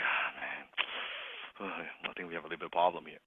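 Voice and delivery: very low, soft, reluctant; sigh, then quietly break bad news; sighing doctor. Doctor telling patient there's a problem, grave sigh. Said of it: "when he sighs".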